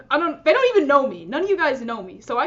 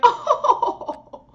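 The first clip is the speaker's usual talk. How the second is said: a high, posh English "Oh." laugh; mock London laugh; 13 semitones higher, 4 dB louder than usual. Joking about how a Londoner would laugh, a mock English "Oh.". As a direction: toss off a light British-sounding laugh. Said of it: "That's a pretty good London laugh".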